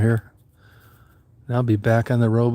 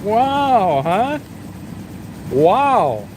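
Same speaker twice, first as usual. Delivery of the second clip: pet talk; 9 semitones higher, slower than usual. Real, not acted. Gushing to Daisy in the van, very high baby talk. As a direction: squeal praise at an excited dog. Owner gushes at excited dog.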